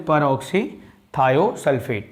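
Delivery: peroxythiosulfate repeated slowly, syllable by syllable; drawn-out repetition. Shown as a demonstration. Teacher repeating the name so students catch it, slowly. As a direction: say peroxythiosulfate again, stretched out. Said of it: "बोलो क्या बोला मैंने?".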